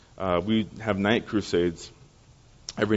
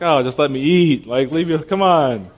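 mock-exasperated, higher and louder; exasperated plea; 5 semitones higher, 5 dB louder than usual. Pastor bothered in public begs people off, mock exasperation. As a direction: whine to be left in peace. Acted pastor wanting to be left alone.

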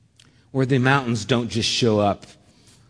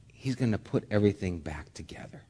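sudden whisper of hope; hushed promise; 3 semitones lower, 9 dB quieter, faster than usual. Real, not acted. Preacher whispering Christ's promise to congregation, hushed. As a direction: drop to a breathy whisper.

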